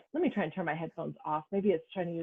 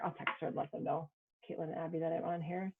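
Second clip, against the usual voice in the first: muffled; 5 dB quieter than usual. Real, not acted. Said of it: "it sounds, like, muffled".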